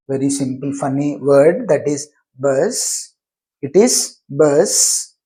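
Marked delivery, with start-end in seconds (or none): 1.7-5.1 "bus" ending cleanly on the s; "bus" closed on its consonant. Shown as a demonstration. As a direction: say "bus" with no vowel after the final s. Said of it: "that ends with a consonant sound".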